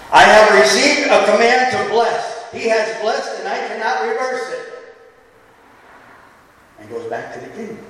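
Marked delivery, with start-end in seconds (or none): 0.1-4.6 proclaiming blessing. Retold or imitated. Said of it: "Balaam, all the people".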